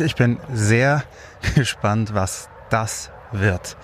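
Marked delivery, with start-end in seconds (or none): 1.3-3.8 nervous laugh. Real, not acted. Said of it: "das beunruhigt mich gerade schon ziemlich".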